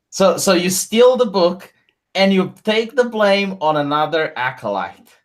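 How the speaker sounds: fiery preaching. Acted. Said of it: "fiery brand preaching".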